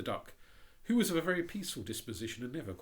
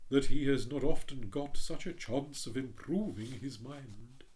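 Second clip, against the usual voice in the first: a touch louder, proud and slow; hint of a haughty rocket; lightly voiced pompous Rocket; 5 semitones higher, 7 dB louder, slower than usual. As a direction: read it as a vain firework showing off.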